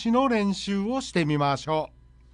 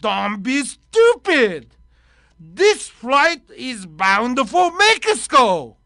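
pilot; 2 semitones higher, 5 dB louder, much slower than usual. Acted. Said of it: "パイロット。".

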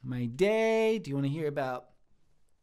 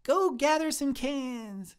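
lightly voiced uncle, higher and drawn out; a hint of a commanding uncle; uncle's order; 5 semitones higher, slower than usual. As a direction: slowly send the kid off on an errand. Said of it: "he'd say".

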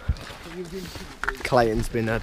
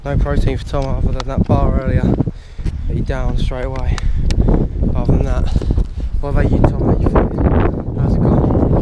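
loud hammed-up TV interviewer; loud mock interviewer; 6 dB louder than usual. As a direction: play a pushy reporter, loudly.

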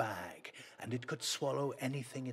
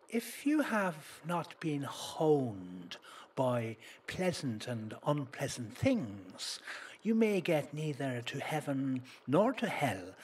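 put-on slow, higher, louder old sage; wise hermit; 4 semitones higher, 5 dB louder, slower than usual. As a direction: intone like a mystic hermit. Wise hermit voiced in story.

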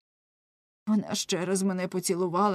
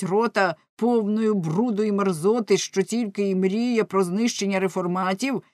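angry tirade. Acted. Lamme rages at the monk.

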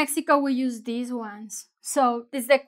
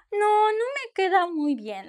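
mildly disappointed, pitched up and drooping; 7 semitones higher than usual. Shown as a demonstration. Customer after a bad fit, mildly disappointed. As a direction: sigh it out a touch. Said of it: "like that".

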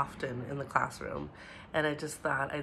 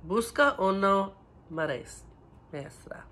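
louder model; 3 semitones higher than usual. Shown as a demonstration. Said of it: "Let's say it together".

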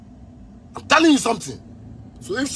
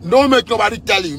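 louder warning; 3 dB louder than usual. Real, not acted. Ranting about the country's leaders, snapping back up loud. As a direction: back up to full voice, punching don't.

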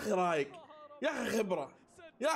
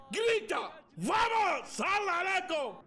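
cheering; 7 semitones higher, much slower than usual. Real, not acted. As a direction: chant it like a fan. Cheering after the goal.

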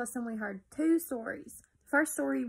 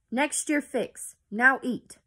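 shrieking; 2 semitones higher, 7 dB louder, slower than usual. A narrator's reading. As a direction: shriek it out like a mad king. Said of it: "the king shrieked".

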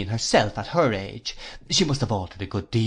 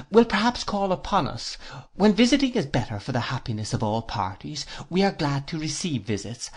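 lightly voiced formal aunt, measured; prim Miss Clarissa. Miss Clarissa grants Copperfield Sunday dinners, lightly voiced formal lady. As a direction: lightly play a ceremonious lady setting out terms.

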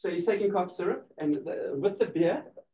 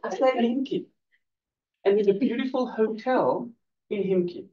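a hint of romance, lifted higher; romantic; 3 semitones higher than usual. Shown as a demonstration. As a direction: say it like an invitation. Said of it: "Make it more romantic".

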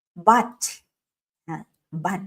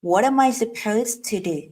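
slow drill; much slower than usual. Shown as a demonstration. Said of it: "ออกเสียงพร้อมกันนะ".

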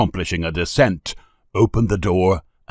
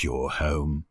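slow, lower reassuring voice; soft-hearted lady, unhurried; gentle; 5 semitones lower, 4 dB quieter than usual. A narrator's reading. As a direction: reassure the child gently, taking your time. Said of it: "said the lady gently".

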